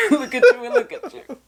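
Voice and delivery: high squeal of laughter; laughing high. Retold or imitated. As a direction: echo it while cracking up. Echoing with laughter.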